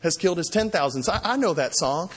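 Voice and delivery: king gushing over his favourite pop song; starstruck fan. Retold or imitated. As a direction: play Achish as an excited fan gushing over David. Achish recognizes David, starstruck.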